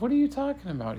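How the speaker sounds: very high, puzzled question; incredulous. Acted. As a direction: act out total bafflement. Girl disbelieves talk of chocolate.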